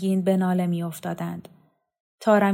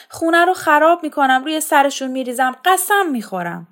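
much higher and louder anguished tearful outburst, no real sobs; mild acted weeping; 7 semitones higher, 6 dB louder than usual. Mother to her children, tearful outburst. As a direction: wail it out in despair. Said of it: "زیر گریه زد".

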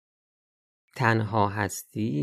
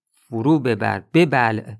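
forceful command; 7 dB louder, slower than usual. Real, not acted. Preacher urges swallowing anger.

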